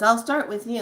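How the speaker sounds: angry giant being. Retold or imitated. Angry dream being threatening the streamer, lightly voiced.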